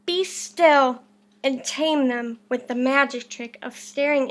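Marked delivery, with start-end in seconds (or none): 0.0-1.0 commanding. Acted. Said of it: "Till Max said".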